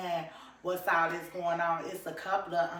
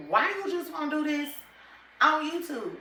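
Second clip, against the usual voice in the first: mocking friends; 9 semitones higher, 5 dB louder than usual. Friends asking in retold chat.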